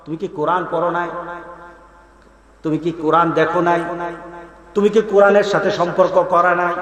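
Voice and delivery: angels' question. Acted.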